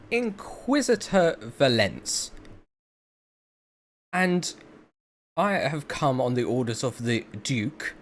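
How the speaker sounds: loud, high-pitched scowling inquisitor; full fuck-you. Acted. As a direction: play an irate inquisitor throwing their authority around. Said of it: "I've gone full fuck you".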